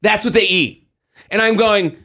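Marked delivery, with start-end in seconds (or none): 0.0-0.9 mocking commenters. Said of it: "getting all these messages like".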